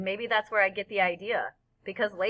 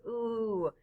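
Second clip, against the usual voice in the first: crowd's ooh; 3 semitones higher, 5 dB quieter than usual. A narrator's reading. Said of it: "everybody goes".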